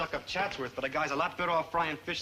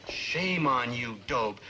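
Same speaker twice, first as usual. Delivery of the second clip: mock scolding; 5 semitones lower, much slower than usual.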